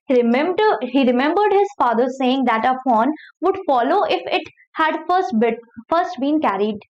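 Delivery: slow, careful reading of an English novel passage; slow read-aloud. Acted. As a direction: read each word out slowly for the class. Teacher reading novel aloud slowly. (धीमी आवाज़ में पढ़कर सुनाना)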